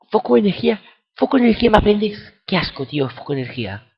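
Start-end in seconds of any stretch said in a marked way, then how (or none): 0.1-2.2 high, loud mock announcer squeal; mocking game voice. Player mocking the game's move offer, in a high mock voice.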